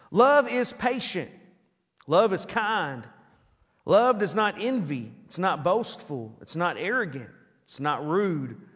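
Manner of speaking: slow, measured reading voice; scripture reading. Acted. Pastor reading the wedding verses to the church, slow. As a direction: lay each phrase down slowly. Reads 1 Corinthians 13 aloud.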